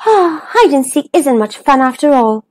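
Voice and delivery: sighing, mildly disappointed; sad. Acted. Dennis is let down by the game, mildly sad. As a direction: start on a sigh, then mope a little. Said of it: "he said sadly".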